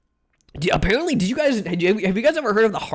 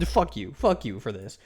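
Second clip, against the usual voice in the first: low, soft grumbled curse; quiet disgusted grumble; muttered; 8 semitones lower, 7 dB quieter than usual. Real, not acted. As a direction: mutter it under your breath in disgust.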